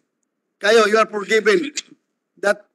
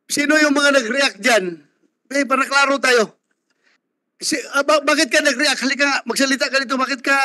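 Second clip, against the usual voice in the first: raised-pitch call to the gallery; pitched up to address the room; 5 semitones higher than usual. Real, not acted. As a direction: call someone in the crowd forward to explain. Chair calls out to reacting gallery.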